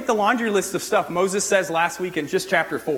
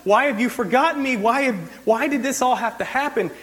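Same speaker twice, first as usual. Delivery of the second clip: higher, aggrieved whining at God; complaining Moses; 6 semitones higher than usual. Retold or imitated. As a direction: whine at God like he's forgotten you. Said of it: "Moses is like".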